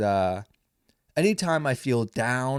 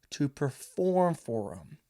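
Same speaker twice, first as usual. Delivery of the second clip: whispered aside; 4 dB quieter, slower than usual. Real, not acted. Comic telling listeners he pays to perform, whispered. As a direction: drop to a whisper for the punchline. Wry aside about paying.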